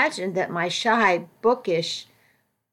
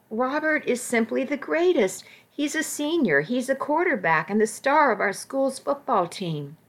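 put-on gushing teen; 3 semitones higher than usual. Dreamy teen gushing about boy.

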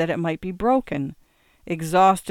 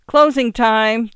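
loud, high, drawn-out call; bartender's shout; 6 semitones higher, 10 dB louder, slower than usual. A narrator's reading. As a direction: call it out slowly across the bar. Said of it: "the bartender shouted".

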